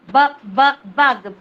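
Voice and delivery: loud repeated bu then bug; phonics sound repeat. Shown as a demonstration. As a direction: drill the b sound. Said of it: "phonics sound demo".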